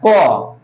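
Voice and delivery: क said with its inherent अ; क fully voiced with a clear अ ending; pronouncing क. Shown as a demonstration. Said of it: "क के अंतिम में अ आता है". (क को अ के साथ बोलना)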